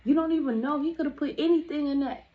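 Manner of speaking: imitating a mad friend's scolding. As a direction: tell her off like a big sister. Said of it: "she was mad".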